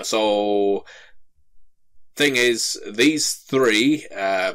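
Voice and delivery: flustered dwarf babbling excuses; nervous dwarf. Acted. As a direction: scramble to shift the blame.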